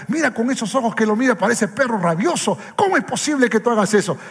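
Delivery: put-on a puffed-up young pastor telling him off, fast; hammed-up rooster-like scolding; cocky scolding pastor. Young pastor confronts the angry husband, mock indignant. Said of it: "me paro así como gallito".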